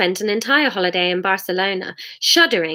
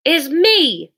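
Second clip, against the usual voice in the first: Missus Shue voice; 8 semitones higher, 4 dB louder than usual. Acted.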